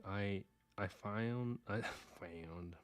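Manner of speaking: drawn-out Texas vowel on "found"; Texas twang slipping out. Real, not acted. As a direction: let a country twang stretch the word "found". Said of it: "my accent's coming out".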